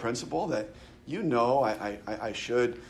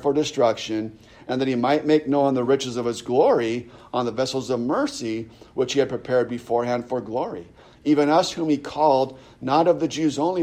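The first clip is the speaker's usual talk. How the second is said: steady, slightly raised Bible reading; declaimed passage read from the pulpit; scripture reading. Acted. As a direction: carry the long verse through with firm emphasis.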